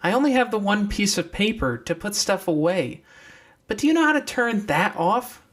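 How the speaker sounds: put-on high young girl's voice; deer girl's voice. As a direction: pitch up into the deer girl. Deer explains the paper.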